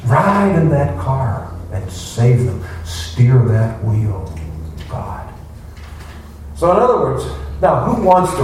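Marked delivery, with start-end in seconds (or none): 0.1-5.3 slow, pleading mock prayer to God. Devotee mocking a selfish prayer, slow and pleading. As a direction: drag it out like a lazy plea to the Lord.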